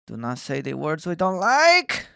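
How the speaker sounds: a lightly put-on German accent, slow and stern; mock German accent. Streamer mocking censors, slow, lightly German-accented. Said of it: "I have a beautiful German accent".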